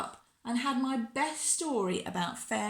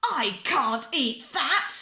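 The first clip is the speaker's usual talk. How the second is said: loud, slow wail of refusal; tearful protest; 5 semitones higher, 7 dB louder, slower than usual. A narrator's reading. Bella refuses the egg at breakfast, crying in protest. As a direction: wail it out, higher and drawn out. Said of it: "I cried and cried and said".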